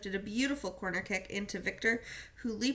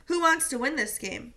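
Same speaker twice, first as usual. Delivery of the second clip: loud, high call to the team; captain pumping up his teammates; rallying call; 4 semitones higher, 5 dB louder than usual. Acted. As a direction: fire them up.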